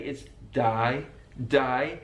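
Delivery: "day" said as "die", Birmingham style; Brummie day. Shown as a demonstration. Teacher imitating the Brummie "day". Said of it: "He also does it on day".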